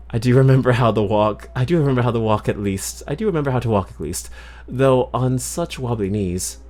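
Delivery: lightly put-on British accent; attempted British accent. Alice on wobbly knees, attempted British accent. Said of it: "my attempt at British accent".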